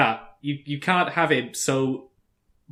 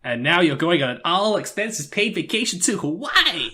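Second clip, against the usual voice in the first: prize announcer; 4 semitones higher than usual. Pretend. Co-host joins game show bit.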